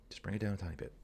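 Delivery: very soft, toned-down voice; brought down. Shown as a demonstration. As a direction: drop the volume right down, calm.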